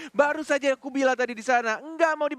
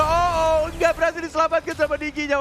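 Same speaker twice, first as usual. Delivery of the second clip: excited play-by-play; 4 semitones higher, 3 dB louder than usual. Real, not acted. Caster reacts to the fight.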